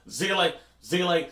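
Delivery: "Zile" with a buzzed German z; German pronunciation. Shown as a demonstration. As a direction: say "Zile" twice, starting on a voiced z. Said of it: "it's more like a Z".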